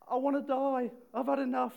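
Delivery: loud, high, furious cry of despair; angry outburst. Retold or imitated. Jonah rages at God under the burning wind, loud anguished shout. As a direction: shout it out in a tantrum. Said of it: "he's getting really angry".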